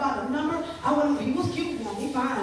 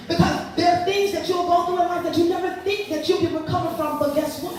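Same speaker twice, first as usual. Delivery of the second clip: preaching build; 4 semitones higher, 4 dB louder than usual. Real, not acted. Preaching to audience.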